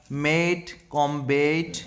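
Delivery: "मेट", "कॉम्बेट" with a held "ay"; stretched A sound. Shown as a demonstration. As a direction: draw out the last vowel of "मेट" and "कॉम्बेट". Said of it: "आई की मात्रा आ रही है".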